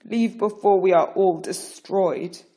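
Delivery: beg, near tears; desperate plea. Acted. Pharaoh begging Moses to leave, desperate loud plea.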